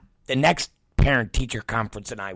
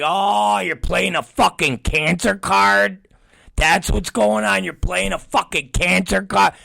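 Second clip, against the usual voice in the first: raised-pitch, incredulous challenge; indignant disbelief; 6 semitones higher than usual. Retold or imitated. Parent silently answers the teacher's excuse, high-pitched indignation. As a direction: throw it back as an outraged question.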